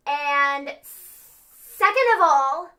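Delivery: loud, hugely stretched promo build-up; wrestling promo. Pretend. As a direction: draw it out loudly like a wrestler. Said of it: "you need to rewrite your promo".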